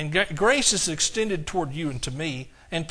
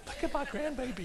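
doting grandparent; 6 semitones higher, 10 dB quieter than usual. Retold or imitated. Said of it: "you think that".

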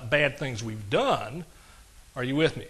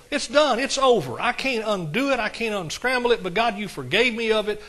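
fervent prayer; 2 semitones higher than usual. Retold or imitated. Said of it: "You stop right there and say".

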